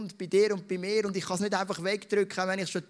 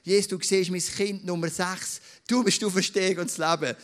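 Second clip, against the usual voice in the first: louder, declaring the words over the room; proclaimed prayer; 3 semitones higher, 5 dB louder than usual. Shown as a demonstration. Pastor models a prayer of faith for his church, proclaimed loudly. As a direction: speak it out boldly as a declaration. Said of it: "du darfst es wirklich auch laut sagen und sagen".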